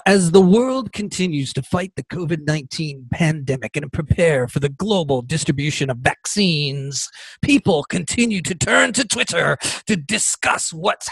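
mock dramatic reading. Reading Twitter's statement to viewers, mock dramatic voice. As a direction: read it like a grand announcement. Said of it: "I may have to do it in a dramatic voice".

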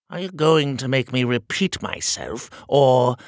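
high, loud pompous tyrant; petty shrill monarch losing patience; shrill king voice. Acted. King voice held.

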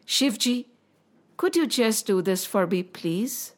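earnest plea, fading to a soft please; gentle pleading. Acted. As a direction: coax a loved one softly. Parvati pleads with Shivji.

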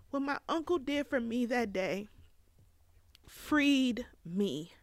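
high, breathy, near tears; tearful whisper. Real, not acted. Speaker retelling her uncle's kindness, teary and whispered. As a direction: push through the tears in a whisper. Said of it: "it still brings me to tears".

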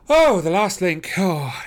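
high, loud, slow cry of delight; exultant cry. A narrator's reading. Holmes to the detectives, crying out in exultant delight. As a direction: cry out in triumph. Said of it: "he cried exultantly".

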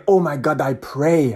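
imitated fervent prayer in a Nigerian accent; mock-fervent Nigerian-accented wish; praying Nigerian fan. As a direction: plead lightly in a Nigerian accent. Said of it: "he was just praying".

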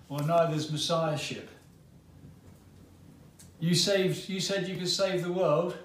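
a lightly voiced scornful criminal; mocking criminal. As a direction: jeer at him like a dying thief. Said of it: "in their agony join in the mockery".

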